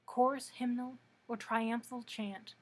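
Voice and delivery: measured poem recital with pauses between phrases; poetry reading. Acted. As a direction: read it as verse, line by line, letting phrase endings fall. Reads Shelley's poem aloud.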